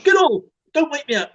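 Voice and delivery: high-pitched mock protest; imitating sleepy partner. Man retelling partner's complaint about being woken, mock protest. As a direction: imitate her telling you off, pitched well up. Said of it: "And she goes".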